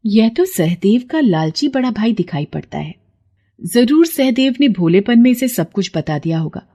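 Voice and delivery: knowing, testing voice; see through his lie; wise goddess. Acted. Goddess tests the greedy brother, knowing.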